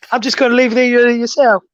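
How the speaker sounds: mock an Englishman backing out; English guy accent. Imitating the player pulling out on him, mock English accent. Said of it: "when he's doing his English guy".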